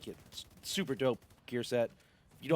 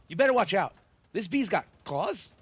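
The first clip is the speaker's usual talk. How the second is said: playful put-on voice; 4 semitones higher, 5 dB louder than usual. Jokey aside about bee build.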